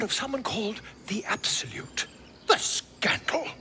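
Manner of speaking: mock scandalised whisper. Gossiping aside about goblin gods.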